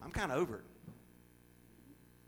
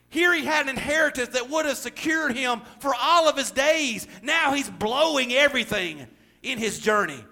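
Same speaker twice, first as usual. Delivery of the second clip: raised, emphatic sermon voice; forceful preaching; 5 semitones higher, 5 dB louder than usual. Real, not acted. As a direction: press each point on the congregation.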